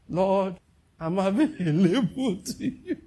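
laughing, mock-earnest plea to the Lord; mock eager volunteer. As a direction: ham up Judas offering himself, stretching out available. Judas volunteering, retaken mockingly.

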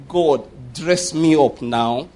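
low, drawn-out plea to God; slow retold prayer. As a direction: retell the prayer slowly, stretching each word. Acts out man's simple prayer.

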